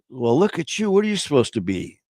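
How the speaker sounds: high, playful admiring greeting; man greeting a child. Acted. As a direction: play the tickled grown-up at the door. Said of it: "He goes".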